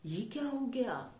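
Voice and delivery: a touch of disbelief, as a classroom example; surprise. Shown as a demonstration. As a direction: demonstrate mild surprise. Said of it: "जैसे हम आश्चर्य को".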